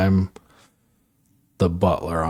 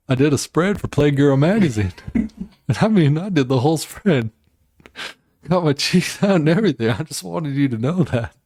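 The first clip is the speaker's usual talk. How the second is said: higher, lightly acted movie confession; imitated dying confession; 5 semitones higher than usual. Dying movie character confesses to a magazine spread, lightly imitated. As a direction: mimic a film character's deathbed admission. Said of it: "when he's dying, he's like".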